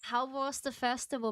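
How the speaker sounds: bright, high, excited streamer greeting; cute anime streamer. Real, not acted. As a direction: squeal hello to the chat.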